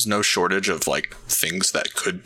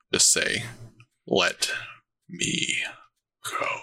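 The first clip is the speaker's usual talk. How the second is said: demon voice, in character. Narrating six people speaking at once in the demon's voice. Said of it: "in the demon's voice".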